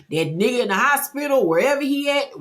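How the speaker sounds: high, quick retold rant; worked-up, rising dismissal; fed-up mother. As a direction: imitate an exasperated mama who has had enough. Fed-up mother announcing they leave.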